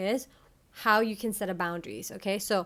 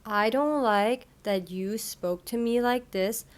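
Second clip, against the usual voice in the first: clear example. Shown as a demonstration. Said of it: "Number one, clear".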